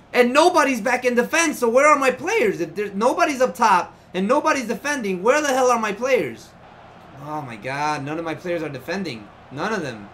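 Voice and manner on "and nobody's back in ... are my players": annoyed rant. Real, not acted. Ranting at his team.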